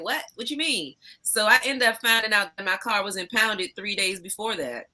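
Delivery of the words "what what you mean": shocked. Retold or imitated. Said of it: "I'm like".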